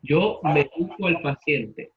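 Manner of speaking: slow demo, "medico" as me-DI-co; slow down and stress DI in "medico"; stress on the middle syllable. Shown as a demonstration. Teacher repeating the example for the class, slow, "medico" stressed on DI. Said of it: "Es una palabra llana".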